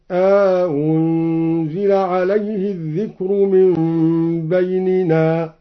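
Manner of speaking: "أأنزل" with long aa before a softened second hamza; slow chant, "أأنزل" stretched to "aa-unzila"; inserted alif. Shown as a demonstration. Reciter showing second option, "أأنزل" with long alif inserted. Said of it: "مع إدخال ألف بينها وبين الأولى".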